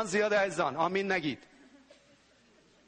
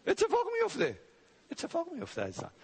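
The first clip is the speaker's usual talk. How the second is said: emphatic insistence; 12 semitones higher than usual. Real, not acted.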